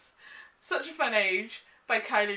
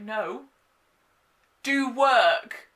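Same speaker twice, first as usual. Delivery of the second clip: firm boss voice, louder on the last word; a boss insisting she gets to work; stern order; 2 semitones higher, 8 dB louder, much slower than usual. Retold or imitated. Boss grabs her, orders work.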